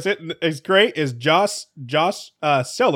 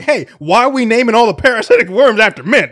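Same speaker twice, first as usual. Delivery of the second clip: loud, raised-pitch mock complaint; mock indignation; 7 semitones higher, 8 dB louder than usual. Host imagines the opposite article's complaint, mock indignant. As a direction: protest it like an outraged objector, in jest.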